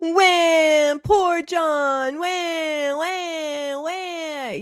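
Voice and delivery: high mock wailing of "poor John"; mock sobbing. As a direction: wail it like a fake crybaby. Mocking John's emotional moment.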